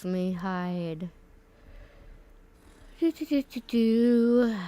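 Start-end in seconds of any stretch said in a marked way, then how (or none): 3.0-4.6 hiccups. Real, not acted. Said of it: "Sorry, I have hiccups".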